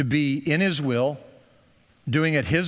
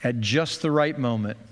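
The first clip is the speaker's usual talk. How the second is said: pastoral prayer. Acted. Pastor praying for the congregation before communion, hushed prayer. Closing prayer over music.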